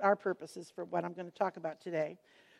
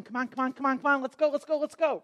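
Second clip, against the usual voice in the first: impatient urging; 3 semitones higher, 3 dB louder, faster than usual. Retold or imitated. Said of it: "Jairus is standing in the back going".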